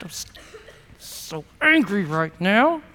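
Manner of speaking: clench and squeeze each word; angry through teeth. Shown as a demonstration. Pastor models talking through teeth about anger. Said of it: "Talk through your teeth just like that".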